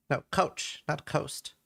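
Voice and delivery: talking through cookie; words round a mouthful; mouth full. Real, not acted. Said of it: "I have a lot of cookie in my mouth".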